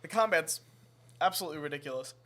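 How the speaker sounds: burping and hiccuping mid-sentence. Real, not acted. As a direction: talk through hiccups and burps. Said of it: "like, burping and, like, hiccuping".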